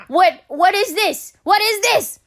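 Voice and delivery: mild mock panic; retold alarm. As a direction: play back her alarm at the rash. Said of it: "And I'm like".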